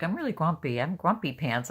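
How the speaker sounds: lightly voiced, not-really-grumpy claim; imitated cheerful grumpiness. Teasing Jen by quoting her, in mock cheerful grumpiness. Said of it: "she's laughing and smiling".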